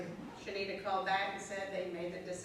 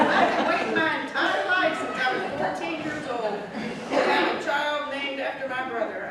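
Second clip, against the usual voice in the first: loud, higher, laughter running through; laughing through words; 6 semitones higher, 11 dB louder than usual. Real, not acted. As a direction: push the words out while still laughing. Laughing while telling.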